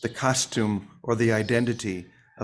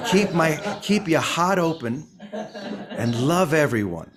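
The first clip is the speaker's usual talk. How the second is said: put-on playful Boston accent, raised pitch; Vicky; 5 semitones higher, slower than usual. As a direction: lightly imitate her in a Boston accent, drawing it out. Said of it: "that was my Boston accent".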